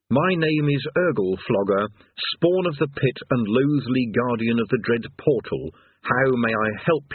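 a bored monster reading its script; unhappy demon. Acted. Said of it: "It was not very happy about this".

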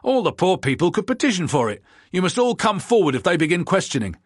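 loud, high angry retort; furious. Acted. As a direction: snap back furiously. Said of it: "answered the second furiously".

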